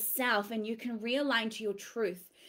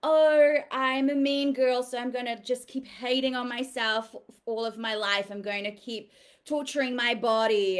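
loud mock whine that trails back to normal; hammed-up self-pity; mocking self-hating inner voice; 3 dB louder than usual. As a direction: voice the mean inner critic, then let it fade. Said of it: "all the stories".

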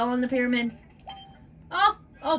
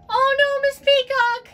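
dismayed cry; 9 semitones higher, slower than usual. Real, not acted. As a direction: react in sudden dismay. Player dismayed at Peacock's fate.

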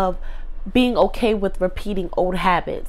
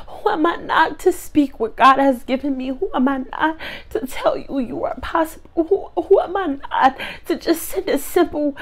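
tearful; 5 semitones higher than usual. Real, not acted. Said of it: "And I'm crying".

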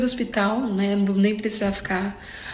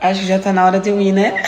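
laughing; 9 dB louder, faster than usual. Real, not acted. Joking she must go now.

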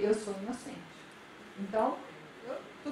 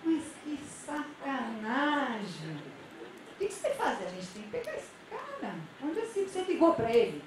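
outraged gossipy friend. Retold or imitated. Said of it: "Sabe aquele amigo que quando alguém chega contando um problema".

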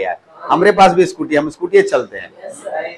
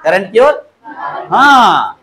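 calling out to class; 2 semitones higher, much slower than usual. Real, not acted. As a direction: call it out so the back row hears. Teacher calls out to the class. (कक्षा को ज़ोर से पुकारते हुए)

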